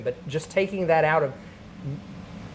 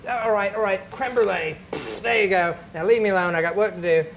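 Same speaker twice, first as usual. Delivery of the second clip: mildly exasperated God, raised pitch; 4 semitones higher, 4 dB louder than usual. Acted. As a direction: brush off a pest, getting louder. God fed up with demanding badger.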